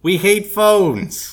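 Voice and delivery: very slow, loud nasal drawl; David Lynch impression. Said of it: "I had a David Lynch impression".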